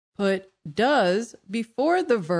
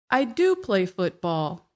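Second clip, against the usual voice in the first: emphatic do, slightly louder; stress on do. Shown as a demonstration. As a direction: do a little louder than the words around it. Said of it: "we say it a little louder than the words around it".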